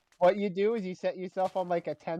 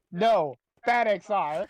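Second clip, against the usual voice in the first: scolding; 3 semitones higher, 4 dB louder, slower than usual. Retold or imitated. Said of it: "you leaned in super close to your mic".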